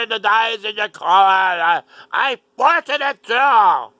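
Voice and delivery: high, loud, gleeful doctor voice; a loud, high send-up of a proud surgeon; mock gleeful doctor. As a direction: ham up the doctor showing off his handiwork. Mocking the doctor's gleeful demonstration.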